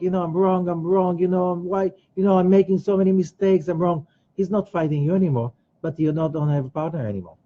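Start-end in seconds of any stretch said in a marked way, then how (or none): 0.0-4.1 lightly voiced self-blaming victim; little victim. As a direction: plead guilty like a helpless victim, mildly acted. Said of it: "like this little victim".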